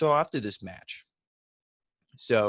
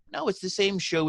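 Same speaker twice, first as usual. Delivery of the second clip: high-pitched disbelieving "No"; exasperated retort; 7 semitones higher than usual. Real, not acted. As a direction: scoff at the silliness of it. Mocking Braun Strowman's claim.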